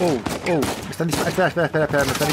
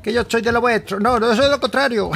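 put-on voice; 7 semitones higher, 3 dB louder than usual. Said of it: "si hablo así".

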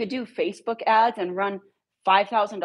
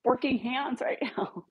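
exasperated protest; 9 semitones higher than usual. Retold or imitated.

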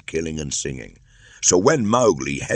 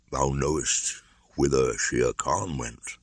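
put-on tender old bear voice; a wise old bear letting go; old bear farewell. Baloo's farewell.

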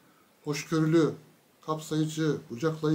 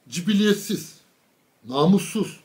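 emphatic insults; 5 dB louder, slower than usual. Retold or imitated. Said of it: "bir de bunları vurgulayarak söylüyor".

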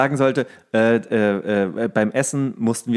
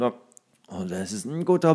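lower, softer, words through a mouthful; mouth full; 4 semitones lower, 5 dB quieter, slower than usual. Retold or imitated. Actor delivering burger line mouth full of bread. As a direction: talk around a dry bun. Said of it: "ich sag's trotzdem mit was im Mund".

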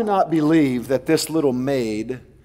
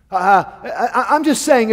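laughing; 7 semitones higher, 5 dB louder than usual. Real, not acted. Laughs at own joke.

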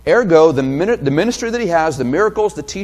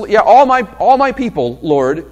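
humble woman's voice; 4 dB louder than usual. Pretend. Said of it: "So she would have known this".

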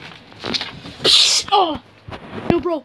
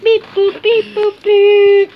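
robot beeps; 4 semitones higher, 7 dB louder, slower than usual. Pretend. Game and Watch voice.

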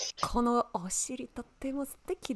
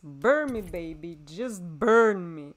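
loud, drawn-out mock plea; hammed-up plea; 4 semitones lower, 5 dB louder, slower than usual. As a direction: beg dramatically to be burned.

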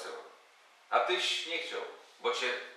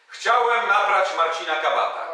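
shouted on demand; 5 semitones higher, 7 dB louder than usual. Shown as a demonstration. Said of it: "krzyknij na cały głos".

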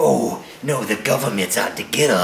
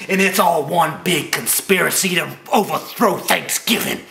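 higher, whiny mocking voice; mock conspiracy theorist; 5 semitones higher than usual. Mocking conspiracy theorists' claims in a whiny higher voice. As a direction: parrot their nonsense in a silly higher voice. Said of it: "You say".

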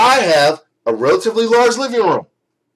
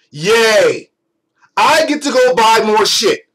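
sarcastic yay; slower than usual. Acted. Sarcastic cheer about buying more.

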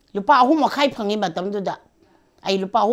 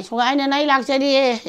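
raised, higher call across the yard; 6 semitones higher, 5 dB louder than usual. Retold or imitated. Calling out to Songkha that I am coming, raised voice. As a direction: shout the name to get his attention.

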